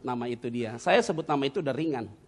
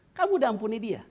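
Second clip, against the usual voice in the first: voice of God; 10 semitones higher, 4 dB louder than usual. Retold or imitated. Voices God testing his heart.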